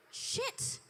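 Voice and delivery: whispered curse. Acted. Woman realizing she can't pay.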